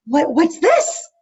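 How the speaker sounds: slow, wondering question; curious wonder. Retold or imitated. Amy Adams's character discovering her anger, wondering. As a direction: slowly puzzle over a strange feeling. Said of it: "And she goes".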